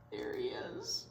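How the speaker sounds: high soft whisper. A narrator's reading. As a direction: whisper it like a secret. Whispered aside.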